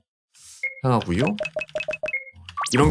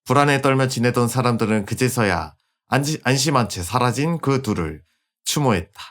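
story narration. A narrator's reading. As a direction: tell the ending like a fable. Epilogue narration.

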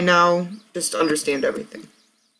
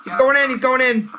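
hyped gamer bro; 8 semitones higher than usual. Real, not acted. Hyped play call.

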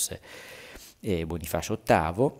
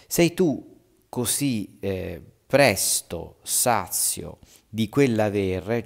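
slow, raised taunting read; mock accusation; 5 dB louder, much slower than usual. Nicolò reproaching Bonifacio, slow and raised. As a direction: lean on the reproach.

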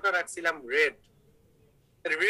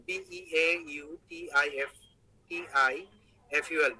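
spelling aloud; 4 semitones lower than usual. Shown as a demonstration. Spells out beautiful for syllable count.

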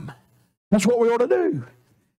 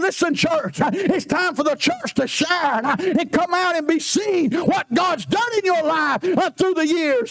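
higher, building exhortation; rising preaching; 3 semitones higher than usual. Acted. Preacher rousing the church to come out and shine.

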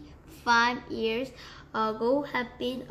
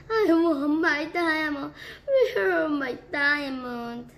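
angry demand; 4 semitones higher, 4 dB louder than usual. Acted. Duchess demands her diamonds.

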